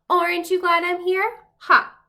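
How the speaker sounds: boastful crayon mocking his rival, gloating laugh. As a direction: crow it over your rival. Orange crayon gloats over yellow.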